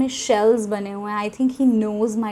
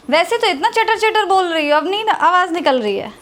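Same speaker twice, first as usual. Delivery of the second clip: teasing through a laugh, pitched up and louder; laughing tease; 7 semitones higher, 4 dB louder than usual. Real, not acted. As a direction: laugh at her sudden shyness while ribbing her. Laughing tease at a shy girl.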